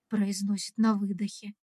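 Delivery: plain reading voice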